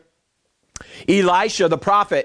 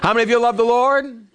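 asked again with a laugh, fishing for hands; pushed, laughing re-ask; 3 semitones higher than usual. Shown as a demonstration. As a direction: lean in and demand a bigger response. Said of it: "Not everybody".

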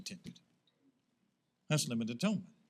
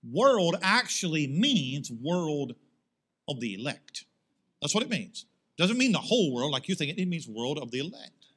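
mock Calvinist; 3 semitones lower than usual. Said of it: "So this is what I would do".

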